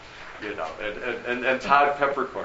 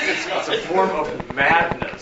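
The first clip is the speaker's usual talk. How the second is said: laughing; 4 semitones higher, 4 dB louder than usual. Real, not acted. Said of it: "laughing while talking".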